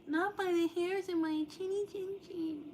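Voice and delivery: high, loud wolf threat; big bad wolf voice.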